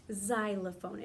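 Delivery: Xylophone said clearly with a Z sound at the start, zy-lo-phone; Xylophone, spoken slowly for children as zy-lo-phone. Shown as a demonstration. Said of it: "it sounds like it starts more with, like, the Z".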